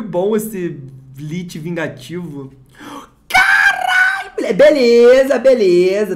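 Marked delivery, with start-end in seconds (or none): 3.3-4.3 very high, slow cracking scream; ecstatic shout. Real, not acted. Vlogger screams on pulling another bomb card, high and cracking. Second big pull, shouting. 4.3-6.1 louder, shouted through a laugh. Real, not acted. Vlogger shouts through laughter after the pull, loud.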